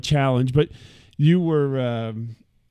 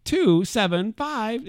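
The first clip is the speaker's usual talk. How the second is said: flat robotic read-back of the number; automated phone voice; 5 semitones higher, slower than usual. Retold or imitated. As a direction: imitate the phone's voice reading digits. Phone system voice retold.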